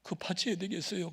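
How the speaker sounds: tearful pleading. Retold or imitated. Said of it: "그러면서 우는 거예요".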